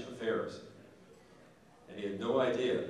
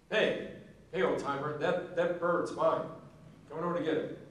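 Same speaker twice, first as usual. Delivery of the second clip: put-on young hunter calling out; 5 semitones higher than usual. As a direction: call out cocky across the fence. Young hunter calls to old general.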